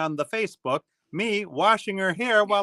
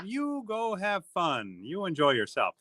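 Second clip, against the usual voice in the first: calmo e comprensivo, a voce bassa; supportive husband; 2 semitones higher, 6 dB quieter than usual. Retold or imitated.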